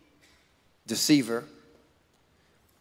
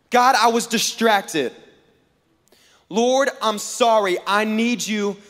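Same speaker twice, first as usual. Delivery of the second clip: earnest prayer; 4 semitones higher, slower than usual. Acted. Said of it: "Whenever we're like".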